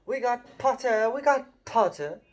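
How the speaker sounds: high, excited cheering yell; twins yelling. Acted. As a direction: cheer it out over the hall. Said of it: "the Weasley twins yelled".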